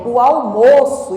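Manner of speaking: "almoço" as noun, with closed stressed O; slow example, closed O in "almoço". Shown as a demonstration. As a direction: say "almoço" with a closed "ow-MOH-so" vowel. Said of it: "Almoço é diferente de almoço".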